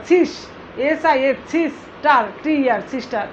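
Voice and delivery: "সিস্টার" sounded out in parts with its letters; teacher's piece-by-piece word breakdown; broken into syllables. Shown as a demonstration. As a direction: spell each syllable of "সিস্টার", then say it. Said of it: "ভেঙে ভেঙে উচ্চারণ করতে".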